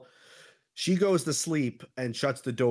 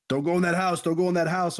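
higher, louder mock yell of warning; retold screaming; 6 semitones higher, 5 dB louder, faster than usual. Homeless man chasing a woman down the street, mock screaming. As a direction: imitate a frantic shouted warning. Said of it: "a homeless man starts screaming at her".

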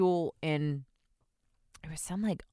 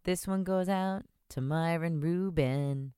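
super boring, slow dedication; a singer; slower than usual. Acted. Dedicating a shout-out as a singer, super boring. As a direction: draw it out slowly and dully. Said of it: "So I'll just be super boring".

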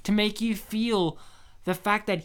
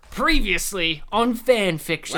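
TV recap voice. Pretend. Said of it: "I'll read the".

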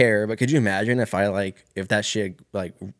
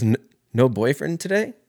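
higher, lilting retold question; mock waitress question; 4 semitones higher than usual. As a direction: quote her pointed question, pitch climbing. Waitress question repeated in retelling.

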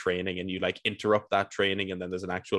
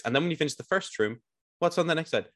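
exasperated rant; 6 semitones higher than usual. Real, not acted. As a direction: vent about the endless rooms. Ranting about repeated waves.

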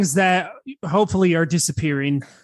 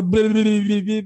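lip-flapping taunt. Retold or imitated. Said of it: "batting his lips a bit, to go".

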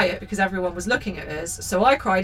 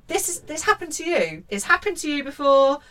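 indignant protest; 6 semitones higher than usual. Acted. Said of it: "And you're like".

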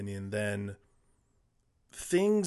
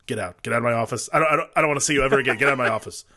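put-on gravelly old tycoon; 5 dB louder, much faster than usual. Studio exec throwing pitcher out.

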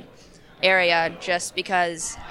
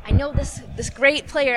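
lightly voiced sweet old lady, higher; fussy old lady; 6 semitones higher than usual. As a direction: mimic the matchmaking older lady, pitched up. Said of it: "she'd always be like".

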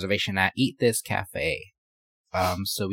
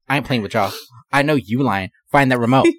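bossy scolding; 2 semitones higher, 4 dB louder than usual. Retold or imitated. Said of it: "He's like".

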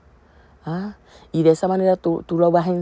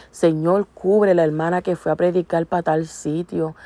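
tender prayer demo. Shown as a demonstration. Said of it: "qué bonito es tú decirle al Señor".

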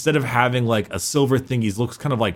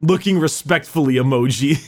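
laughing. Real, not acted. Joking about cohost's reaction.

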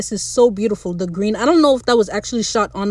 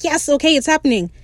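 imitating an excited man, pitched up; eager, higher-pitched retold cheer; 5 semitones higher than usual. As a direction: act out his happy excitement. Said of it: "'cause Ed was excited".

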